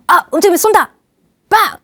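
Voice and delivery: high child's pretend gunshot; acted kid's excited attack; playful child. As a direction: fire a toy gun at dad. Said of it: "아이가 소파에 누워있는 아빠한테".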